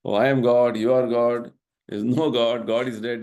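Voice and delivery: mock the so-called gurus with a loud, proud opening; mocking quote of gurus. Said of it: "gurus who are all talking like this".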